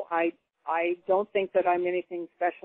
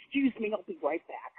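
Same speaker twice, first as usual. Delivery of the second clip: matter-of-fact; 2 semitones higher, 5 dB quieter than usual. Retold or imitated. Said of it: "You know, kinda like that, just matter-of-factly".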